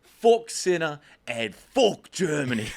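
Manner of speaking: mock shout. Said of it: "And he's like".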